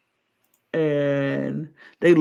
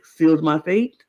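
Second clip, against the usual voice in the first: resigned martyr; 6 semitones lower than usual. Pretend. Acting out the player's ideal line, mild resigned sigh. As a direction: sigh it like you've given up. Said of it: "go around and be like".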